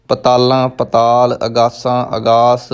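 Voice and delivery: ਪਤਾਲਾਂ and ਅਗਾਸਾਂ with nasalised final aa; wrong nasal endings. Shown as a demonstration. Teacher shows learners faulty readings, nasal ends on ਪਤਾਲਾਂ, ਅਗਾਸਾਂ. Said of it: "ਬਿੰਦੀ ਲਾ ਕੇ ਕਈ ਉਚਾਰਨ ਕਰਦੇ".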